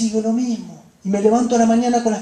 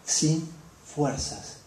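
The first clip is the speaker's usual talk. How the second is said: weary lament; 4 semitones lower, 8 dB quieter, slower than usual. Acted. Exhausted believer voiced in sermon.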